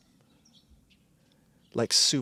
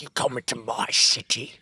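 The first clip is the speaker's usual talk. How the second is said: botched accent, put-on warrior-king voice; Leonidas; 5 dB louder than usual. Podcaster mimics Leonidas confronting the intruder, botched accent. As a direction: play an affronted king in an unplaceable accent. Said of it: "what that impression was or what that accent was".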